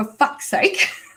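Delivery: mock muttering, low, under the breath. Retelling the reaction to a flight's third delay: muttered under the breath. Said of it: "under my breath, I went".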